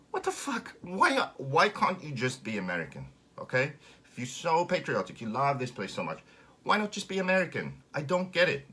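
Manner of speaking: squeaky high burst into exasperated comic ranting; baffled protest. Acted. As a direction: start very high, then demand an explanation. Baffled comic protest at imagined Americans.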